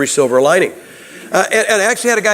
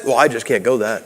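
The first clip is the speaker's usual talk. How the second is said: mock student; 6 semitones lower, 3 dB quieter than usual. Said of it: "And you know what he said?".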